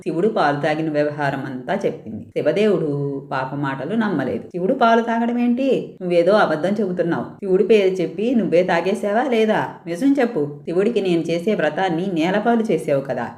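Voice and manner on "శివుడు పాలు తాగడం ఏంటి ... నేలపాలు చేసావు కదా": lightly voiced angry father, a bit higher. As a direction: scold a lying daughter. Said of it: "ఆగ్రహంతో". (కోపంగా తండ్రి గద్దిస్తూ)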